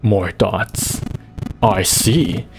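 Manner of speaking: slow, menacing undead villain; lich voice. Acted. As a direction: read as a cold ancient lich. Lich voice continues.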